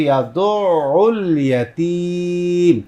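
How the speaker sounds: ইয়াদুল ইয়াতীম recited slowly, pressing the throat letters; pressed throat letters. Shown as a demonstration. Teacher shows students the throat letters, slow pressed recitation. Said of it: "আওয়াজকে চাপিয়ে উচ্চারণ করতে হয়".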